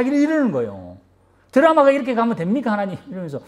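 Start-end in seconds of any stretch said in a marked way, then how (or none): 1.5-3.0 higher, mock-indignant protest; lightly voiced grumbling prophet; a touch of outrage; mild indignant Jonah.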